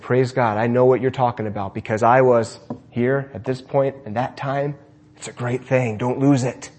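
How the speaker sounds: put-on quiet, sincere encouragement for a child; gentle reassurance. Speaker answering the little girl crying over souls, gentle reassurance.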